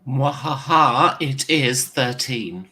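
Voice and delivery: slow villain cackle then slow words; mad scientist. Pretend. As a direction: gloat like a cartoon mad scientist. Player reports mythos score theatrically.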